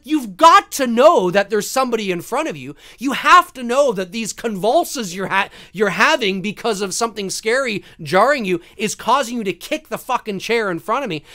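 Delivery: mildly heated, emphatic rant; exasperated telling-off. Retold or imitated. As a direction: retell it as an indignant complaint. Confronts chair kicker in retelling.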